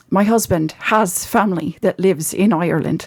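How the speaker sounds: lilting Irish accent. Shown as a demonstration. Actor describing a play done in college, Irish accent. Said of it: "I've pulled out the Irish accent".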